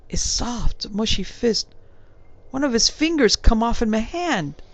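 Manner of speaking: a hint of a respectful London bellboy; young servant answering his gentleman in a light Cockney. Thomas tells the horror.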